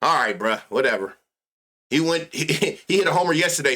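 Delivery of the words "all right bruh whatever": mock sigh. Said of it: "he get to spamming that bitch like".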